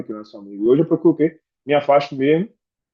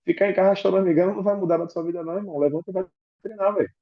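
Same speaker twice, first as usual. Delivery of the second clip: imitating mom; 5 semitones higher than usual. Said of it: "minha mãe ainda falou assim".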